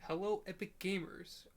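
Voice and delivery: steady formal newscaster read; news reporter voice. Pretend. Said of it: "like, news reporter voice".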